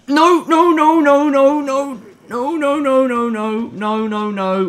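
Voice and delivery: high frantic no no no; panicked, high and begging; panicked pleading. Real, not acted. Panicking at monster.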